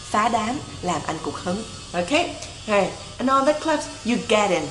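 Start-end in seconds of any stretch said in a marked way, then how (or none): 3.2-4.6 "get in" run together as one word; linked demonstration. Shown as a demonstration. Teacher models the lyric for learners, "get in" linked. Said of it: "Ở đây đọc nối giùm Thủy nha".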